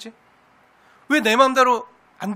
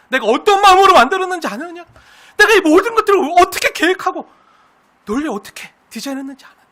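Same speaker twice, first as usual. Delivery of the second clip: much higher, louder demand; God's thundering challenge; 9 semitones higher, 9 dB louder than usual. Acted. God confronting Job from the whirlwind, thundering.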